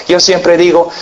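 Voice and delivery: ordinary delivery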